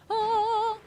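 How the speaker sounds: sudden high, loud "Oh!"; surprised shout. Real, not acted. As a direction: blurt it out in shock.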